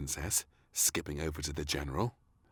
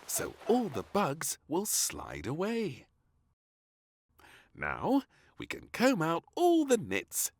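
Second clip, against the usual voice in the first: maid; 12 semitones higher than usual. A narrator's reading.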